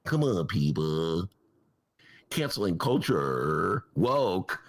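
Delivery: a hint of a scoffing Bill Maher; Bill Maher imitation. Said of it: "I heard a bit that Bill Maher did".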